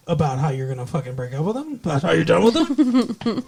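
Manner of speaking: imitating an exasperated boyfriend, building; quick mock demand that rises at the end; pushy retort.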